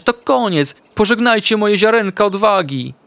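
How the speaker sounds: high, melodramatic wail; high-pitched, hammed-up despair; panicked squeak. A narrator's reading. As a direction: lament as if all is lost, in a squeaky little voice. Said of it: "zapiszczał Ignaś".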